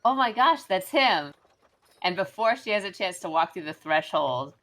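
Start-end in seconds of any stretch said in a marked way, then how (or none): 0.0-1.3 higher, louder mother's cry; a mother calling out when she spots the lost cat; excited yell. Acted. Mother yells on seeing the lost cat in the dog's mouth, excited. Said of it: "And she just yells".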